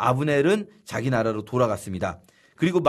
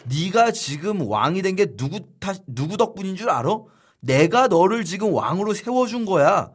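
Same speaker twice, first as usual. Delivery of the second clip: imitated furious general, louder and higher; angry scolding; 3 semitones higher, 4 dB louder than usual. Abner berating Ishbosheth, hammed-up angry rant. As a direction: rant down at the puppet king. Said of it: "막 화를 내면서".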